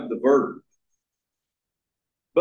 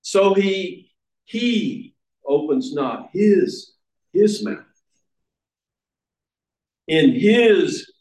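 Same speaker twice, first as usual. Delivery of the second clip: doubled pronouns punched to show they are emphatic; stress on the pronouns; 4 semitones higher than usual. Shown as a demonstration. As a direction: repeat "he", "his" and "him", each lifted high. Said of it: "the pronouns are emphatic".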